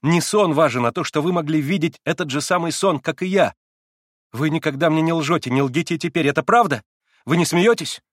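put-on a wilful girl teasing; lightly voiced excitable girl; Liza's girlish voice. A narrator's reading.

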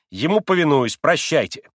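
bow out with a flourish; defiant boy. A narrator's reading. Boy obeys, storms off. (дерзко)

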